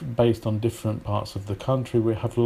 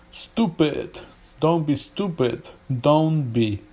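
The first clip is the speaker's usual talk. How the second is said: higher-pitched American "stupid" as STOO-pid; American accent; 3 semitones higher, slower than usual. Shown as a demonstration. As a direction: drop the y in "stupid", American style. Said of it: "no y sound".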